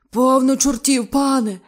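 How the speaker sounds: high, loud slow panicked cry; horrified pleading; terrified cry. Acted. Diver terrified of devils.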